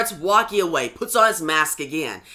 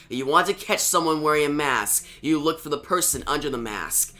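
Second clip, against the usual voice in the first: a hint of a subdued, lower character voice; lightly voiced stoic Jason; 3 semitones lower than usual. Jason explains to Rose why he came, understated low voice. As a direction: play him understated and serious, a little low.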